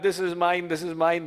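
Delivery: mild clutching "this is mine"; a light mock of grabbing owners; possessive. Swami mocking people who claim things, possessive. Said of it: "This concept we have".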